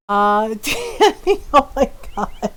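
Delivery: laughing out the raider's name; surprised laugh. Real, not acted. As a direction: caught off guard, laugh through it. Raid alert pops up mid-story.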